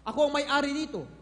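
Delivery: mock furious owner telling them off; angry owner. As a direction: scold like an angry property owner. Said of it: "Galit na galit siya".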